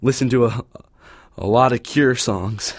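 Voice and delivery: low, brooding mumble; deep gloomy voice. Acted. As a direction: sink into a dark low voice.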